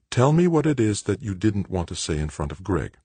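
hint of a mother's insistence; mother, probing. Narrator voices the mother in dialogue.

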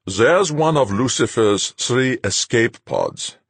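commanding captain, cold; stern captain. A narrator's reading. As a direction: lay it out like a hard captain. Captain Fuchs' voice.

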